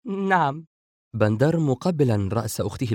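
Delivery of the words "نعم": high, lightly amused answer; amused yes. A narrator's reading. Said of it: "سارة وهي تتناول لقمة من الأرز ضاحكة". (جواب مرح بصوت عال)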